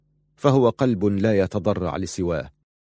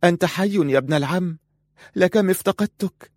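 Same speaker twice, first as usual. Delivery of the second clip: much higher, overjoyed cry; strongly; 9 semitones higher than usual. Acted. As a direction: burst out with joy at seeing him alive. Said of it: "وقالت في قوة". (بقوة وفرح وصوت مرتفع النبرة)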